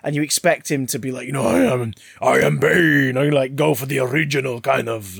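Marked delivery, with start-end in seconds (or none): 1.5-3.2 loud, brutish South American accent; put-on Colombian accent for a brute; Bane with South American accent. Shown as a demonstration. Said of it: "the Colombian or South American accent for Bane".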